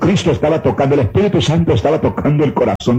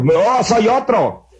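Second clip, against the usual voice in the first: ecstatic cry; 9 semitones higher, much slower than usual. Retold or imitated. Man cries out after conversion.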